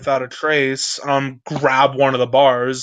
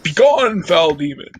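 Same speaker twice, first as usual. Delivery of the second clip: dramatic exorcism shout; 3 semitones higher, 4 dB louder than usual. Acted. Banishing a ghost.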